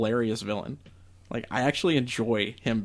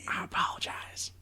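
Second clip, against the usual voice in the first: barely audible, contrite whisper; very soft, breath-only sorry; whispered apology; 10 dB quieter than usual. Real, not acted. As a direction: whisper it as a solemn confession. Exaggerated apology for the ranking.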